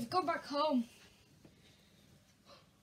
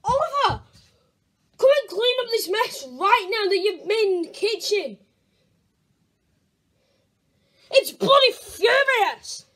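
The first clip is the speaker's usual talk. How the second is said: angry parent; 4 dB louder than usual. Acted. Parent scolding.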